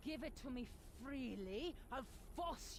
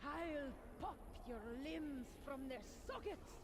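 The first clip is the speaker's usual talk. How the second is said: rising, gloating evil threats; unhinged villain threats. Acted. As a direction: savor each threat, slowing at the end. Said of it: "Sound pretty crazy right now".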